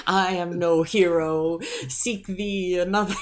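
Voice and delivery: high, slow archaic knight; old-timey knight voice. Retold or imitated. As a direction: declare it like a noble exile. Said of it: "old-timey voice".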